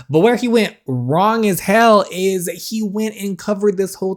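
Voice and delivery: loud, high scolding; scolding rant. Real, not acted. Player scolds Blade to take responsibility, angry. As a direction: tell him off hard.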